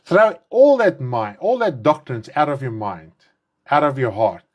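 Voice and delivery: normal talking voice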